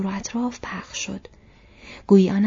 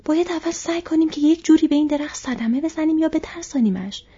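higher, louder, angry urging; 7 semitones higher, 5 dB louder than usual. A narrator's reading. Sam urging Frodo to hurt the tree, angrily. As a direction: say it with rising anger. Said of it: "سام خشمگین گفت".

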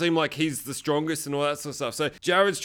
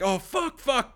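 imitated panic; 8 semitones higher, slower than usual. Voices Dean's panic at wound.

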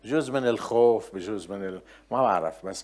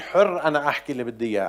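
louder, quick retort in imitation; mock defiant claim; 3 semitones higher, 6 dB louder, faster than usual. Preacher imitating people who claim free speech, mock defiant. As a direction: imitate someone brashly insisting on their rights.

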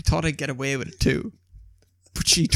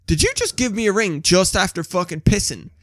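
retold indignant disbelief; 5 semitones higher, 4 dB louder than usual. Acting girlfriend's indignant question.

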